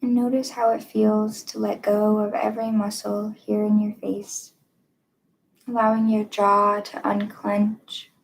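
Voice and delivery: calm guided-meditation delivery, long pauses. Acted. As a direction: guide listeners gently into stillness, leaving room between phrases.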